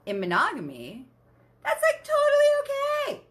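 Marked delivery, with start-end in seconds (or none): 1.6-3.2 mock-cheery, much higher, sing-song; sarcastic. Real, not acted. Mocking the cultural rule about monogamy, sarcastically high and sing-song. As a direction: say it sweetly, meaning the opposite. Sarcastic aside before "It's fucking not.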